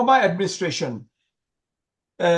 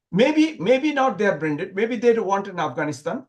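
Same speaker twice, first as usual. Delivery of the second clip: sarcastic. Real, not acted. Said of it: "I'm being very sarcastical".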